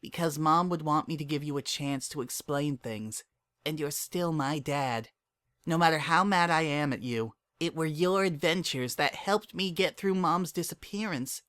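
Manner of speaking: a daughter talking her father round; young filly Dinky. A narrator's reading. Dinky voiced by narrator.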